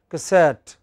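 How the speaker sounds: "Cassette" with the stress on the final syllable; ca-SETTE, weight on the end of "Cassette"; French final stress. Shown as a demonstration. Teacher giving a French word as example, final stress on "Cassette". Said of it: "It's always the final syllable".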